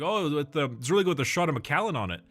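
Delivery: put-on a quick, half-hearted stab at a Scottish accent; bad Scottish accent. Quoting the haggis vendor at the Scotland festival in a bad Scottish accent. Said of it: "That was my bad Scottish accent".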